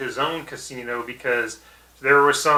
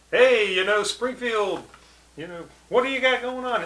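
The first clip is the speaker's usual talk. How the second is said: put-on high, soft old movie-reel narrator; mock old-timey film voiceover; old-timey newsreel voice; 8 semitones higher, 5 dB quieter than usual. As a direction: imitate a vintage newsreel announcer, pitched up. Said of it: "the old-timey, uh, movie reel".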